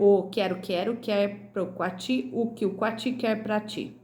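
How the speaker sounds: careful tongue-twister recital; tongue twister read aloud. Shown as a demonstration. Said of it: "Em voz alta, o trava-língua". (trava-língua lido em voz alta, com cuidado)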